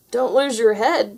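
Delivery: slow, dry wisecrack; quip. Acted. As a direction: toss off a deadpan joke. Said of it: "quipped Garfield".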